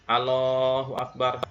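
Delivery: "Allahu Akbar" said slowly with a single short L; missing shaddah. Shown as a demonstration. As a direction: drop the doubled L of "Allahu". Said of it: "tapi dibaca Allah".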